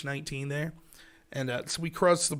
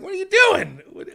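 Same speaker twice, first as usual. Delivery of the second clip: high, loud disbelieving yell at a friend; incredulous shout; 11 semitones higher, 8 dB louder than usual. Retold or imitated. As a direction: shout it like you can't believe what you're hearing. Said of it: "My friends are like".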